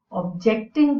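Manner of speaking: objecting with the stress on JECT; verb stress. Shown as a demonstration. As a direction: lean on the middle syllable of objecting. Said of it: "So that's a verb".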